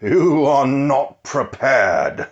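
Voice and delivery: slow, ominous villain warning, lightly voiced; a hint of an ominous game villain; Illidan Stormrage. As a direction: stretch each word like a menacing demon hunter. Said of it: "to quote Illidan Stormrage".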